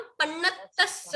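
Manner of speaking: पन्नतस with weight on the second त; stress on t. Shown as a demonstration. Teacher telling class how it's said, stressed demo. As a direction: hold the half t, then stress tass. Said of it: "त पे जोर आ जाता है".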